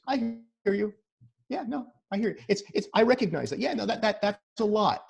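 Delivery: lightly acted empathy, lifted voice; validating listener. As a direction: imitate someone sympathetically hearing a person out. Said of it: "What he's saying is".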